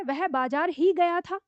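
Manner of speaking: ही stressed, said slowly. Shown as a demonstration. Teacher showing pupils how ही adds stress. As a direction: lean on ही to show only the market. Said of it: "तो इसमें हमको क्या समझ में आ रहा है".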